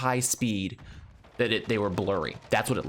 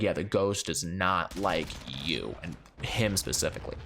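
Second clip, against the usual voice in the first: ominous medium; 4 semitones lower, 3 dB quieter than usual. Retold or imitated. Medium telling grandpa the ghost hates him, low and ominous.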